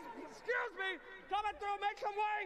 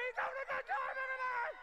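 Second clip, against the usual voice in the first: hype announcement; 5 semitones higher, faster than usual. Real, not acted. Host announces fan to crowd.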